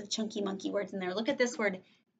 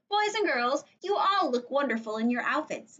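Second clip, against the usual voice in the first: higher, singing-out teacher greeting; teacher addressing class; 4 semitones higher, 4 dB louder than usual. Acted. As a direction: praise the whole class brightly.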